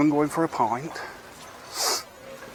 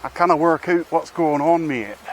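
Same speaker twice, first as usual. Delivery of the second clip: put-on a weak, half-hearted stab at a Scottish accent; lightly put-on Scottish accent, fading out on mate; bad Scottish accent; 2 semitones higher than usual. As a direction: attempt a Scottish accent and barely land it. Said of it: "That was supposed to be a Scottish accent".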